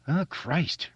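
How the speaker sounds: Richie's exclamation. A narrator's reading.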